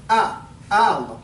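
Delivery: "Ah, Allah" slow with a stretched "Ah"; long questioning Ah. Shown as a demonstration. Teacher isolating the wrong "Ah" sound for listeners. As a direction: draw out the "Ah" before Allah. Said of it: "ah means if".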